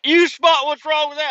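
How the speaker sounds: put-on very high, loud old-timer quiz; squeaky country geezer testing the trucker; old man voice. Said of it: "He's like".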